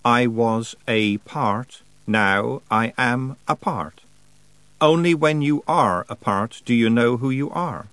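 lightly voiced cold winter spirit, slow and proud; Wintersmith voice. A hint of the Wintersmith telling Tiffany his plan. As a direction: speak as a frost god pleased with himself.

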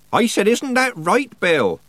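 high, loud, slow repeat. A narrator's reading. Nanny prompts old man to agree, raising her voice. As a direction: spell it out for someone not hearing. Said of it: "raising her voice".

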